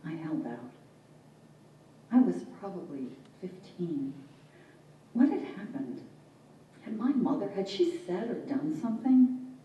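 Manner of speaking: measured verse with long pauses; poem reading. Acted. Poet wondering what set her father off, measured poetic reading.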